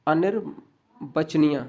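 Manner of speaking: अनिर्वचनीय slowly, with a break midway; careful teacher's slow repeat; slow dictation. Shown as a demonstration. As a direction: split the word for someone writing.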